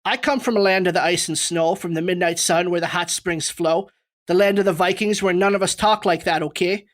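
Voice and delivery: lightly attempted Minnesotan, reading a complaint letter; Minnesotan accent. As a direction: imitate a Minnesotan, loosely. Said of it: "to mimic a Minnesotan".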